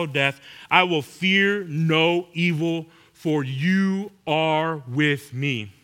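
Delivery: slow, measured psalm reading; scripture reading. Acted. Preacher reading the psalm to the congregation, slow and measured. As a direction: lean into each line of the psalm.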